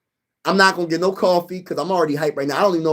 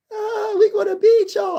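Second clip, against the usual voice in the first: a hint of a taunting boss, higher; lightly voiced supervisor. Packers-fan supervisor taunting him, mild higher mock voice. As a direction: tease him like a rival fan. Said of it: "She was like".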